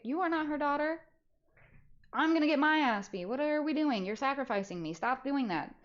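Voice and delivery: high, frantic whispered-feeling pleading; panicked plea. Retold or imitated. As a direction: beg the friend not to sacrifice you.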